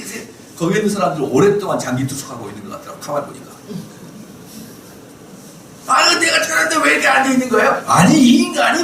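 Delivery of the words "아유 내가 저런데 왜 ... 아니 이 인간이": put-on high, loud squabbling old woman; quarreling grandma. Grandmas fighting over prayer spots, high and loud. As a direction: bicker shrilly over a seat.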